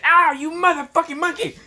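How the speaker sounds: high, loud screeching alien villain; villain shriek. Acted. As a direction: shriek it like an enraged tyrant. Frieza yelling insults at Issei.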